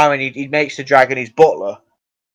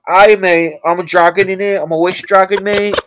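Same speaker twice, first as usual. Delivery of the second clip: a hint of a matey dragon, slightly higher; lightly voiced cheeky dragon greeting; 5 semitones higher than usual. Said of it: "the accent's changed".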